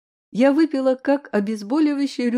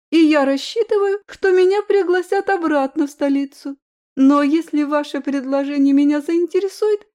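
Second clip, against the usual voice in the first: haughty actress voice; 4 semitones higher, 3 dB louder than usual. Acted.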